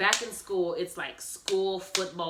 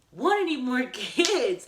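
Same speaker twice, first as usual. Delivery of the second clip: slow, laughing through the words; drawn-out giggly refusal; 7 semitones higher, 6 dB louder than usual. Retold or imitated. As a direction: laugh it off in disbelief. Refusing another baby, laughing.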